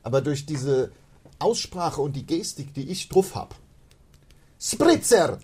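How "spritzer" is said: put-on loud, high Italian accent. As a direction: call out the order in Italian. Mock Italian ordering.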